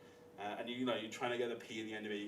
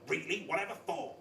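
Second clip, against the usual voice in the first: mock receptionist; 5 semitones higher, 4 dB louder than usual. Receptionist's shocked reply voiced.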